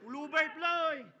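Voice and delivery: "Lubert Floyd!" stretched slowly and falling; drawn-out call. Acted. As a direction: drag the name out slowly. Calling out opponent again. ("Lubert Floyd!" binanat nang mabagal)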